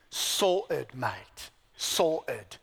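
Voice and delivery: a hint of a British accent on Sorted, mate; light British accent. Preacher imitating British people to his congregation, lightly British accent. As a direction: toss it off like a Brit with a touch of British accent. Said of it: "this is what the Poms would say".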